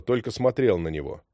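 ordinary delivery, nothing marked

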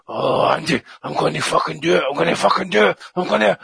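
a hint of a breathless man about to finish; mate mid-act, a touch of strained excitement; mock panting mate. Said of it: "he says".

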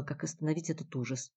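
usual speaking voice

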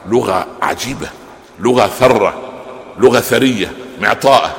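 ordinary delivery

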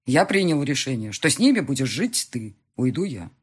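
a hint of a husband announcing a hard decision; husband tells wife he will leave; husband Marat. Husband decides.

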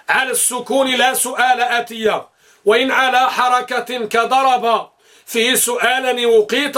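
slow, metrical verse recital; verse recitation. Acted. Teacher reciting memory verses on questions to students, metrical recitation. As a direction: recite the lines in measured, stretched syllables.

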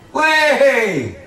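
high laughing joke; high giggly punchline; comic laugh. Real, not acted. Comic exclamation.

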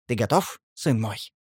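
subdued, caring farewell tone; tender question. A narrator's reading. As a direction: ask your son softly before parting. Tender farewell to his son.

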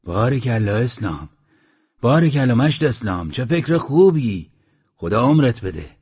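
pleased, lifted congratulation; happy, approving cheer; delighted praise. Acted. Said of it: "خوشحال شد و خندید و گفت".

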